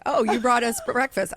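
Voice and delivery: mock-excited thanks; delighted coworkers. Booth colleagues greeting the food she brought, mock delight.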